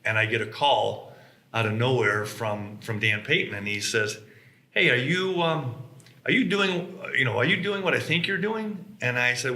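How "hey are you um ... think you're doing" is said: higher, eager mock phone greeting; retold eager caller. Competitor calling out of nowhere, eager and higher. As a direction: lightly act out a curious caller.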